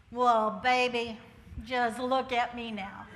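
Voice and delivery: proud. Real, not acted. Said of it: "proud comeback line".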